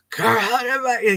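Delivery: whisperer's throat starting to give out; throat getting funny. Retold or imitated. Imitating the caller after minutes of whispering, strained throat. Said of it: "His throat's starting to get a little funny".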